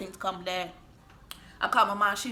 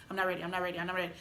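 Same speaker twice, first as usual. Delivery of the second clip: quiet pleading; 3 semitones lower, 9 dB quieter, much faster than usual. Retold or imitated. Praying in crash.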